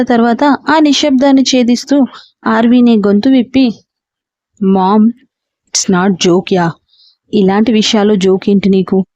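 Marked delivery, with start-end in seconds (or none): 4.6-9.1 lower, firm and serious. Acted. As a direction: daughter scolding her mother, stern and low. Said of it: "సీరియస్గా చెప్పింది".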